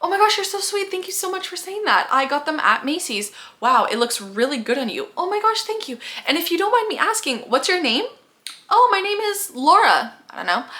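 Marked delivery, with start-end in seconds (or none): 0.0-8.1 high, gushing thanks; flattered stranger. Acted. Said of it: "Then they'll say something like". 8.7-10.1 high, slow, sweet reply; sweet introduction. Acted. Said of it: "person B introduces herself".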